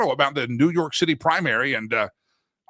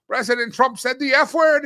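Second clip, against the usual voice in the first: higher, amused retelling with a chuckle first; mock a friend tickled by scandalous news; imitating laughing friend; 8 semitones higher than usual. Friend from Africa calls about Trump's swearing, imitated laughing disbelief. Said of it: "and he's laughing".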